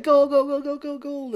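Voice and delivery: high, loud mock gold rush; frantic excited yell. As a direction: scream it like a greedy crowd. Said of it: "They're like".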